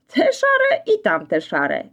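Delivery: very high, slow, amused; laughing. Acted. Azor laughing at the mix-up, amused. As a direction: laugh at your own mistake. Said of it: "śmiał się Azor".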